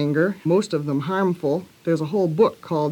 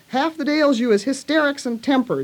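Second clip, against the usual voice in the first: angry shout; 8 semitones higher than usual. A narrator's reading. Mary telling Colin what ails him, angry shouting. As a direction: scold him hard in a raised voice. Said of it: "shouted Mary".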